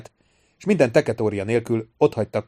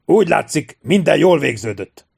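calling out; 5 semitones higher, 5 dB louder than usual. A narrator's reading. Calling from a departing ship.

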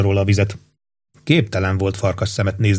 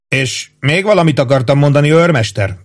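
cool; 6 semitones higher, 3 dB louder than usual. A narrator's reading. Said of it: "szólalt meg hűvösen".

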